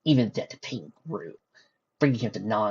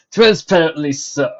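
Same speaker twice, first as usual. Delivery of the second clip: quick servant reply; 6 semitones higher, 11 dB louder than usual. Acted.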